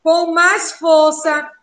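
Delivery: "com mais força" drawn out slowly; stressed, slowed. Shown as a demonstration. Teacher demonstrating a stressed syllable, slow and pressed. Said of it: "As sílabas que você pronunciou".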